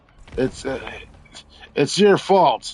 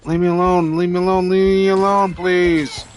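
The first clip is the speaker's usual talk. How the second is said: higher, louder pleading; exasperated yell; 4 semitones higher, 3 dB louder than usual. Real, not acted. Player pleading with enemies, loud whiny shout. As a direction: whine it loudly at the crowd. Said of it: "occasional screaming at hammer cunts".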